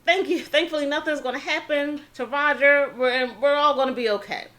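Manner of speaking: thrilled that Roger is finally safe; super excited. Retold or imitated. Family grateful the man paid Roger's fine, excited. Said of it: "He's super excited".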